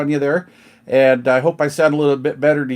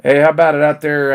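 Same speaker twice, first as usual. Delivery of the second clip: louder radio call into the mic; louder CB call, hey out there; 5 dB louder than usual. Real, not acted. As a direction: hail anyone listening on the air. Calling out on the radio.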